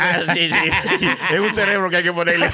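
cracking up mid-sentence; laughing. Real, not acted. Teased, bursts out laughing.

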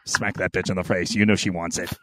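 low, gruff whispery urging; inner devil voice. Retold or imitated. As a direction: growl like the devil on your shoulder. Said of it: "that voice in the back of your head".

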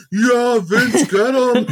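high cheering fan call; excited fan voice. Retold or imitated.

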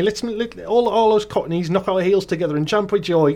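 jolly mock cockney, ending in a squeal; hammed-up bad cockney merriment; Dick Van Dyke. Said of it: "just do a Dick Van Dyke".

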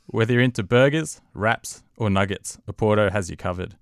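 loud, punchy radio ad read; announcer voice. Pretend. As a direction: sell it like a live radio commercial. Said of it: "your best announcer voice".

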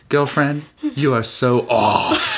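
slow, drawn-out spiritual guru voice; Marianne Williamson impression. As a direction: drawl it like a new-age guru. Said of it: "That's Marianne Williamson".

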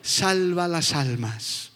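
hushed slow prayer; soft prayer. Shown as a demonstration. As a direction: pray it quietly and slowly. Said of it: "hay que ponerse en la brecha".

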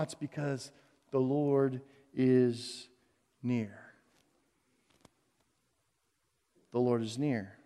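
low, slow and soft, almost a hush; tender reassurance. Real, not acted. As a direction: whisper the comfort to the whole room. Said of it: "reassuring climax".

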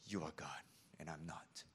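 a low, quiet submission; humbled surrender. Retold or imitated. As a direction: concede it meekly. Job's humbled reply.

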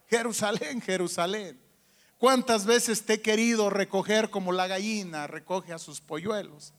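a soft lament quoted from Jesus. Retold or imitated. Preacher quoting Jesus weeping over Jerusalem, hushed lament. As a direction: mourn over the city, hushed.

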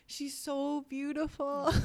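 high, slow, choked-up whisper of awe; imitating tearful husband. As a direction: mimic him crying over his newborn. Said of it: "tears were streaming down his face".

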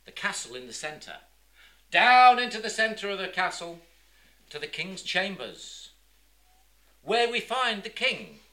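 measured scene-setting with dramatic pauses; theatrical storytelling. A narrator's reading. Storyteller transporting the audience back to the king's palace, theatrical. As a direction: lead the listeners in, phrase by phrase.

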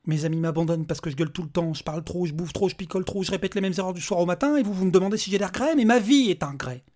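building from heated to a loud, high despairing cry; anguished outburst. Acted. Broken father confesses to the robot, despairing. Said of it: "une colère qui tournait à la tristesse puis au désespoir".

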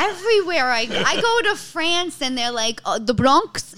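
loud, high, amused outburst; laughing exclamation. Real, not acted. Comedian tells host about France recognising her, laughing loudly.

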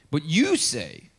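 slow and weighty; slow scripture reading. Acted. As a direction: lay each word down slowly. Reads Jesus' words slowly.

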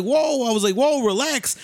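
high-pitched retold whoa; retold startled protest. Retold reaction to speeding car.

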